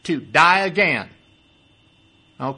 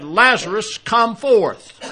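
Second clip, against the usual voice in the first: loud cry; 3 semitones higher, 5 dB louder, slower than usual. Retold or imitated. Preacher voicing the Lord calling Lazarus from the tomb, loud cry. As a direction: call it out loud, pitch climbing. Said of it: "cried with a loud voice".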